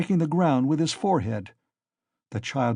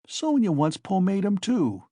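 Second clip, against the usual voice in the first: malignant; 5 semitones higher than usual. Acted. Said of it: "he laughed malignantly".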